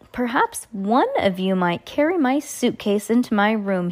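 lightly wheezy villain; a hint of a wheezy old schemer. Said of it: "he suggested in his wheezy voice".

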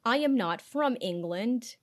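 put-on slow, laboured American accent; mock an unconvincing American accent; fake American accent. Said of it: "do American accents".

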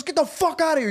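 high-pitched imitated yelling; retold angry yell. Uncle throwing the stranger out, mock angry yell. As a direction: act out an uncle's angry outburst.

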